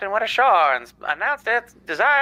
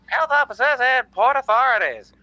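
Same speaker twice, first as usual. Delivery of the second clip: put-on old-time radio narrator voice; 1940s radio announcer. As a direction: read it like a vintage newsreel. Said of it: "I am doing the nineteen forties radio guy".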